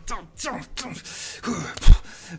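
high and loud, grunting as each punch lands; punching bag rage. Acted. Balti yells at the bag while punching it. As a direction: take it out on the bag, yelling.

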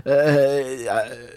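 fussy German banker listing parks; German accent. Acted. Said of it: "pas d'accent allemand problématique". (accent allemand exagéré)

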